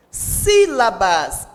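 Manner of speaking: "Sílabas" very slowly, heavy on the sí; stress on SÍ. Shown as a demonstration. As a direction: stretch "Sílabas", leading with a strong sí. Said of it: "a sílaba tônica é o si". ("Sílabas" bem devagar, com o sí forte)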